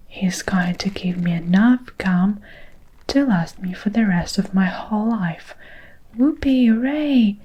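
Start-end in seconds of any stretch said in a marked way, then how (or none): 6.2-7.4 excited cheer. Acted. Girl cheering over gum prize.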